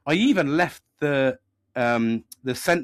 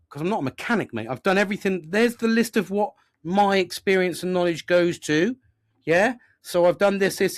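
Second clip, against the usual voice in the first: higher-pitched, exasperated self-defence; grumpy retort; 6 semitones higher than usual. Retold or imitated. Customer defending his list to the mechanic, grumpily. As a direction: retell standing your ground, voice pushed up. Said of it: "I got a bit grumpy with him as well".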